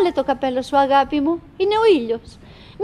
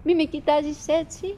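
softer, pleading; quiet plea; 6 dB quieter than usual. Acted. Wife softly begging her husband not to stare. Repeated plea, first soft.

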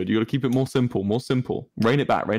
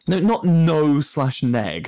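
slow deadpan; 5 semitones higher, slower than usual. Shown as a demonstration. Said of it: "That's not believable".

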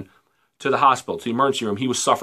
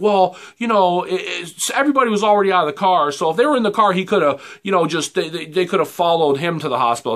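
mocking police chief; 5 semitones higher than usual. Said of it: "She's like".

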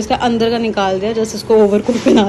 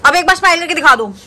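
higher, faster coaxing to smile; 5 semitones higher than usual. Real, not acted. Asking child to smile.

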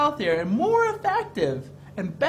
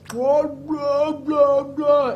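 sticky peanut butter mouth; mouth full of peanut butter; 4 semitones higher, 4 dB louder, much slower than usual. Shown as a demonstration. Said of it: "you start talking like this".

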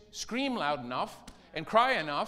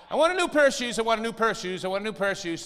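put-on louder, higher whining child; loud whiny demand; 4 semitones higher, 6 dB louder, faster than usual. Child nagging a parent for shoes, loud whine. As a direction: whine it at full volume like a kid.

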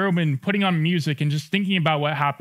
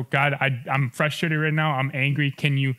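quiet sample prayer; 4 semitones lower than usual. Shown as a demonstration.

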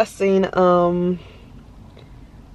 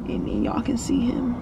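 soft unvoiced whisper; 2 semitones higher, 6 dB quieter than usual. Real, not acted. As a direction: whisper it like a secret. Teasing the baby's visit.

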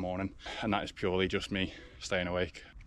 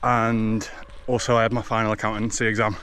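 while running. Real, not acted. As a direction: keep talking as you run. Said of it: "running at a five twenty pace".

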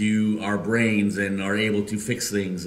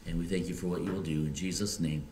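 earnest prayer voice, quicker at the start. Acted. Pastor prays before the sermon, earnest prayer. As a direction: pray it before the congregation.

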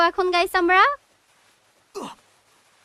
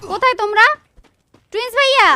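calling for help; 5 semitones higher, faster than usual. Real, not acted.

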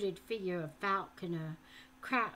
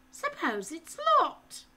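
higher, louder worried question; anxious boy; 9 semitones higher, 9 dB louder than usual. A narrator's reading. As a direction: ask nervously.

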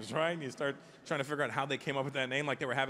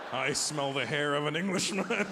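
giant voice; slower than usual. Pretend. Comic opening the show as the giant. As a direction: boom it out like the giant from the beanstalk.

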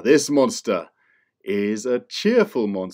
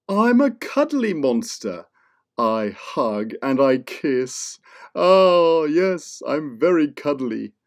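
cuddly monster; 2 semitones higher than usual. Acted. Cuddly monster offering hugs to the kids, sweetly.

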